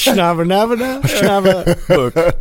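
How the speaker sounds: high, drawn-out mock Chinese gibberish; fake Chinese accent. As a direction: ham up fake Chinese, slowly. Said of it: "That was the worst Chinese accent".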